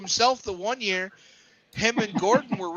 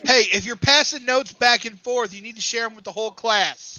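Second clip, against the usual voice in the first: mock teacher scolding; 3 semitones higher, 6 dB louder than usual. Host to co-hosts caught passing notes, mock teacher scolding. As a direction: call them out like a mildly stern teacher.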